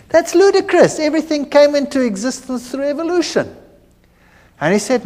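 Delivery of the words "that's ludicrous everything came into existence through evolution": higher, fast, dismissive scoff; scoffing retort. Retold or imitated. Lecturer scoffing at a creationist colleague, high and quick. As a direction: brush it off as ludicrous. Scoffing evolutionist in retold debate.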